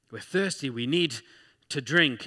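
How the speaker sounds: lightly whiny plea, rising at the end; a mild mock whine of thirst; complaining Israelites.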